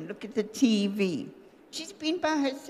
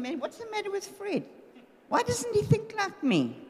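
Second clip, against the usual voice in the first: mock exasperation; 8 semitones higher than usual. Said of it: "I used to think".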